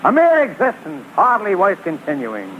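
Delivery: milk the heartbreak like a stage tragedian; overdone tragic speech. Acted. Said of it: "too late for the Academy Award".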